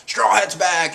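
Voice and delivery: lightly acted announcement. Marines spreading the news, lightly acted exclamation. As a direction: announce it with a touch of alarm.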